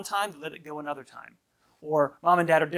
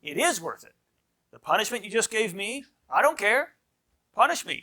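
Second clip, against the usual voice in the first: higher-pitched defiant retort; defiant child; 5 semitones higher than usual. Retold or imitated. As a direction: act out a kid daring the parent. Acting a defiant misbehaving child.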